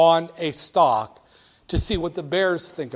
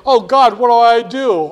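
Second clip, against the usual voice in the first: mock panic; 6 semitones higher, 12 dB louder than usual. Panicking investor quoted, market falling.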